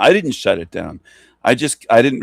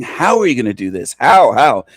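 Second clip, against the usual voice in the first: mocking demons' question. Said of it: "they're saying".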